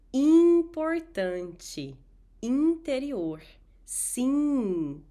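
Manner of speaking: Importante, Interior, Sim with nasal i; nasal vowel drill. Shown as a demonstration. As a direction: Importante drawn out slowly, nasal. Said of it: "Repeat after me".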